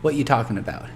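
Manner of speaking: lightly voiced wacky street accent, rough edge. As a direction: play a sketchy dealer with a silly accent. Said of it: "I'm not gonna do an accent now".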